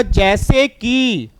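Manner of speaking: loud, very slow drawn-out shout; sudden yell. Retold or imitated. Teacher shouting to wake dozing students, drawn out loud. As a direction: jolt the sleepy kids awake. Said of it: "मैंने एकदम चिल्ला के बोला".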